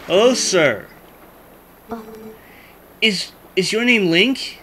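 lightly voiced nerdy boy prince; nerdy kid voice. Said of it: "I suddenly gave him a nerdy kid voice".

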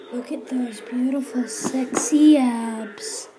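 low-pitched show-off; vain showing off. Acted. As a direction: stretch out the last words smugly. Showing off abs in put-on voice.

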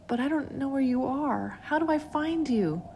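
put-on high child voice, unsure; doubtful little boy; young boy. A narrator's reading. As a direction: ask up high as a small boy. Billy answers the voice.

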